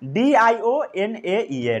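slow letter by letter spelling; spelling out slowly. Shown as a demonstration. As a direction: spell it for them to copy. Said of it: "spelling बोलिए".

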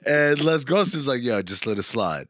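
a hint of laid-back homie talk; mock street talk. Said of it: "she gives a look... and like".

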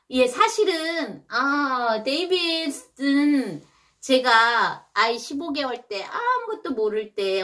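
ordinary delivery, nothing marked

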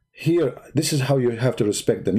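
a mock-reverent whisper. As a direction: hush as if in awe.

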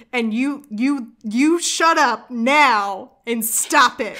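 retold scolding, slow and emphatic; losing her mind. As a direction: order a character around in mock outrage. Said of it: "I absolutely was losing my mind".

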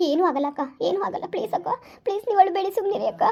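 calm her down gently over the phone; sister-like comfort, soft and steady; reassuring friend voice. Acted. Rashmi soothes crying sister.

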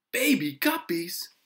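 put-on high, loud, drawn-out boyish delight. A narrator's reading. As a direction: crow with delight, slowly. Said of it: "Henry was delighted".

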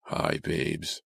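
creepy whispered phone greeting; low, husky whisper; hoarse whisper. A narrator's reading. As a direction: whisper it hoarsely, like a menacing caller. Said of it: "The voice was a hoarse whisper".

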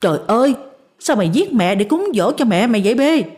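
lightly acted panicked wife; frightened cry. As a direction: gasp it out, shocked at the sight. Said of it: "hoảng hốt la lên".

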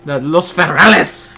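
loud, drawn-out mock battle cry; hammed-up rallying shout; playful shout. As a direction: announce it with slow, big relish. Playful shout of special forces name.

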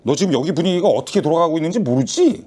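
normal talking voice

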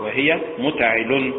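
متعل slowed, stress on the lam vowel; stress pattern demo. Shown as a demonstration. Reciter showing students the meter pattern. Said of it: "بالنبر على حركة اللام".

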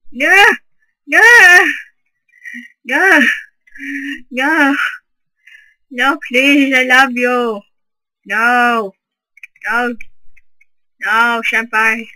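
hammed-up loud pleading screams; PewDiePie impression. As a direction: mock-desperate anime pleading. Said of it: "PewDiePie impression".

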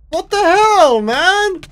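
high, loud disbelief; exasperated shout. Real, not acted. Gamer who cannot hit the giant, loud and exasperated. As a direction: throw it out in exasperation.

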